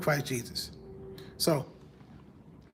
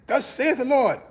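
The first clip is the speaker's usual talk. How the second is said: lightly mocking churchy persona, pitched up; church talk; 4 semitones higher than usual. Challenging churchy people about talking to their wives, mock church talk. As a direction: put on a touch of preacher talk. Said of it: "they got that church talk".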